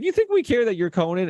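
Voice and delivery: high, sneering bus driver; imitating a gruff Boston driver scoffing; a driver scoffing at a celebrity, mocking.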